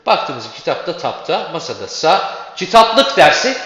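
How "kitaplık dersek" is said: "kitaplık" slow and loud, lık stressed; stress on LIK. Shown as a demonstration. Teacher stressing the last syllable of "kitaplık". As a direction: lean on the final lık of "kitaplık". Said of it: "lıkta vurgu olmuş olur".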